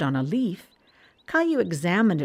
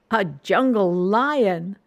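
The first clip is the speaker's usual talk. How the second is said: slow, louder playful exclaim; excited discovery; 3 semitones higher, 5 dB louder, much slower than usual. Acted. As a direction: savour the pretend lion. Child excited at cat.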